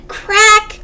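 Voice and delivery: high, loud crack; sharp crash word. A narrator's reading. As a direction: call it out as a sudden break. Story crash acted out.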